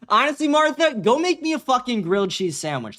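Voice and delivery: laughing taunt. Real, not acted. Laughing taunt at chat member.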